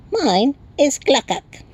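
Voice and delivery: very high, slow little creature; chirping Tiny. A narrator's reading. Tiny creature addressing the newcomer, high chirp. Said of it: "and chirped".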